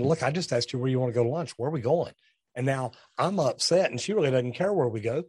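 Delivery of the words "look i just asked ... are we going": impatient. Retold or imitated. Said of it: "I'm sitting here thinking".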